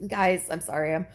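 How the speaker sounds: hiccuping and choking; catching breath between hiccups. Real, not acted. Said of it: "I'm hiccuping and choking".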